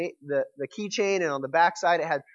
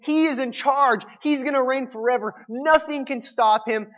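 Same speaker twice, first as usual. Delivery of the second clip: confident praise; 7 semitones higher, 4 dB louder than usual. Retold or imitated. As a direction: declare it like a victorious crowd.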